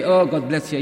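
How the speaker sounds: loud, exaggerated silly blessing; overdone, foolish-sounding well-wishing. Shown as a demonstration. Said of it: "If you say it this way, yeah, you look silly".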